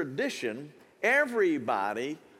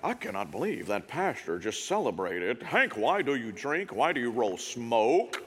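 skeptical church folk; 6 semitones lower than usual. Retold or imitated. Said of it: "You're like".

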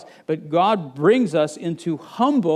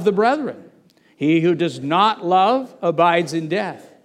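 scripture reading; 3 dB louder than usual. Acted. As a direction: read it out together, measured and firm. Reads scripture aloud with congregation.

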